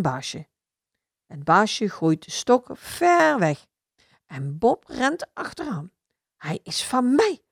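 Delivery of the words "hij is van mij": barking dog. Acted. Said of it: "blaft Bob".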